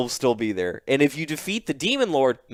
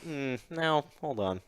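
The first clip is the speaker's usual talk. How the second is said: mock hesitation; 13 dB quieter than usual. Imagined Eren hesitating.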